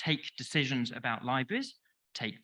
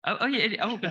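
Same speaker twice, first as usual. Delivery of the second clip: laughing; 5 semitones higher, 4 dB louder, faster than usual. Real, not acted. Laughing at audience heckle.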